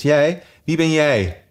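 scornful. Acted. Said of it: "zei de rups smalend".

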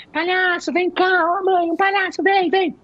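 put-on high, eager child calling mom; excited child. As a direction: squeal it like a thrilled little kid. Criança animada chamando a mãe. (criança animada chamando a mãe)

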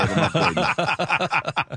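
laughing repeat. Real, not acted. Comedian repeats promise laughing.

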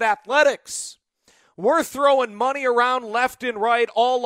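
lightly voiced exasperated rival radio host; indignant rival host. Host imagines the Padres postgame show complaining, mock indignant. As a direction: put on a mildly outraged rant, easing off at the end. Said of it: "woman that hosts the Padres postgame show's talking about".

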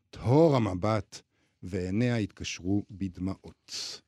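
measured story narration, unhurried; literary reading. A narrator's reading. Host reads a Grossman excerpt aloud, calm literary narration. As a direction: read the novel passage to the listeners.

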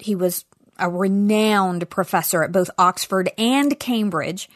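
ordinary talk

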